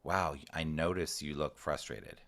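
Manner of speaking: slow, gentle noticing; calm, validating. Shown as a demonstration. Parent calmly naming an upset child's feelings, slow and gentle. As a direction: soothe the child as you name the feeling. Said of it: "I really wanna take a breath myself".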